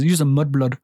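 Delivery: shaky attempt at South African; South African accent. Quoting an old South African workmate, attempted South African accent. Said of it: "in his South African accent".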